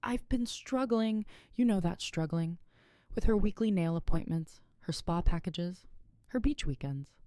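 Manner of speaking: high, cracking scream; shrill scream. Acted. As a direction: shriek it out. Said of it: "cracked into a shrill scream".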